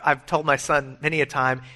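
ordinary talk, nothing marked

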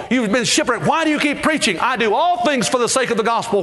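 high, fervent pulpit voice; impassioned preaching. Acted. Preacher voicing the apostle Paul's compulsion, fervent. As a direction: push each line like a revival sermon.

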